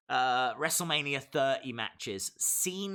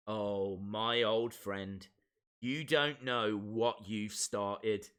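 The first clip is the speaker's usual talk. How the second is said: slow reading; 4 semitones lower, slower than usual. Shown as a demonstration. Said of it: "I'll try and do it better than that".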